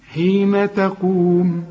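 تقوم slow, with a light ت; slow recitation. Shown as a demonstration. Teacher models the verse for the student. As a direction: read حين تقوم slowly, the ت kept thin. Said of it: "التاء مرققة".

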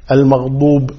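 المغضوب with heavy d sound; dad. Shown as a demonstration. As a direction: press a stopped emphatic d in المغضوب. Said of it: "بالضاد". (المغضوب بالضاد)

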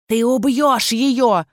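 slow drawling shout; baron's cry. A narrator's reading. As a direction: cry out in mannered alarm. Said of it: "выкрикнул фон Шон".

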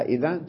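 إذن with the n pronounced at the end; idhan, closed on the n; final nun sounded. Shown as a demonstration. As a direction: say إذن ending in a clear "-an". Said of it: "تقول إذا".

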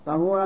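"طهورا" with short a after ط; fatha on ṭā'. Shown as a demonstration. Teacher giving the answer, fatha on ط in "طهورا". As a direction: say "طهورا" as ṭahūran. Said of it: "بفتح الطاء".

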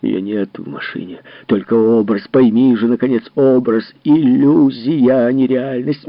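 loud, slowing on Иллюзия; shouting insistence. Acted. Husband shouts that it is only an image. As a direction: drive it into her head.

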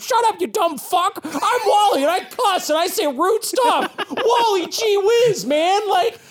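high squawky parrot and comic, laughing through it; bickering comic duo. Acted. GM voicing parrot and comic arguing, high cartoon voices. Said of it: "And he says".

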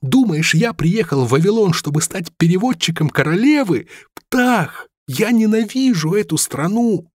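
high, impassioned tirade; bitter rant. A narrator's reading. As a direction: pour out years of resentment. Rami's bitter rant about England.

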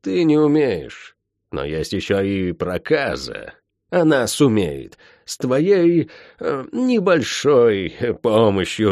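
cool threatening sorceress; menacing witch. Acted. Tiph threatens calmly.

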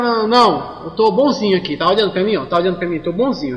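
imitating a drunk man, lightly slurred; voz de bêbado. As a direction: play a tipsy guy insisting he's fine. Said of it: "Aquela voz de bêbado". (voz de bêbado leve)

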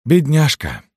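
high, loud exclamation of pity; pitying sigh. A narrator's reading. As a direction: cry out in a high voice for the poor woman. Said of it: "вздохнула маркетантка". (жалостливо, высоким голосом)

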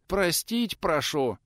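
slow, dragged-out wail of a plea; drawn-out plea. Acted. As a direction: stretch every word, begging. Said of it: "затянул тот".

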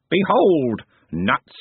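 pompous servant proclaiming; grand candle knave. Acted. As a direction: announce it grandly. Smeems grandly presents candle.

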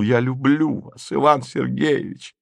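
мягко, с улыбкой в голосе; повтори признание светло и нежно; светлая улыбка. A narrator's reading. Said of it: "светло улыбаясь, повторил". (светло улыбаясь)

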